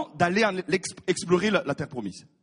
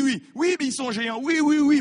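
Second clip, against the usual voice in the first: oui répétés, aigus et pressants; concession impatiente; 5 semitones higher than usual. Acted. Acte Josué face aux objections. (concession impatiente, voix plus aiguë)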